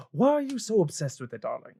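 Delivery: high, quick insistent question; exasperated spouse in character; questioning dwarven husband. Acted. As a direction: press her, softening at the end. Dwarven husband questions his wife.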